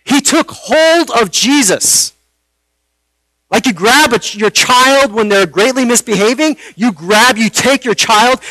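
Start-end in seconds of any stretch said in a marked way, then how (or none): 0.0-2.1 slow, deliberate weight on "took hold"; stress on TOOK HOLD. Real, not acted. Preacher showing how Peter grabbed Jesus, slow emphatic "took hold". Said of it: "I want to emphasize that word".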